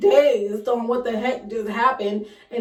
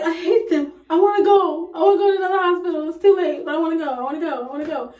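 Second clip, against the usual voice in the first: frustrated outburst; 4 semitones higher, 3 dB louder, faster than usual. Retold or imitated. Upset patient wanting to leave.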